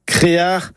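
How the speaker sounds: créar in two syllables, é-a; North Finistère pronunciation. Shown as a demonstration. Teacher shows the regional form, North Finistère pronunciation. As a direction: say créar with a throaty final consonant. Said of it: "une prononciation plus du Nord Finistère".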